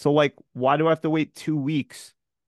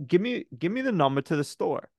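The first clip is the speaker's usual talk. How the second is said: fed-up demand; 6 semitones higher than usual. Retold or imitated. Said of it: "I'm like".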